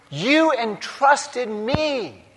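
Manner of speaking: heartfelt, drawn-out thanks; touching gratitude. Acted. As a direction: say it with wonder at being trusted. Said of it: "with touching gratitude".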